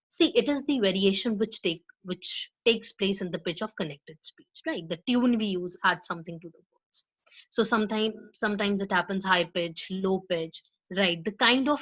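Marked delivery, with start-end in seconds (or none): 4.9-7.1 whisper. Shown as a demonstration. Whispered repeat of definition.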